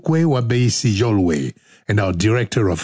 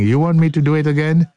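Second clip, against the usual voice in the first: fast; faster than usual. Shown as a demonstration. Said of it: "let me do it again".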